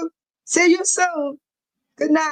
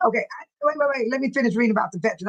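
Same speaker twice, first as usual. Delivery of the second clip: rushed and hyper; faster than usual. Real, not acted. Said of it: "I got too hyper".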